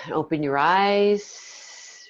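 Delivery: slow, gentle wake-up cue; guided meditation. Acted. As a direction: bring them back slowly. Ends meditation.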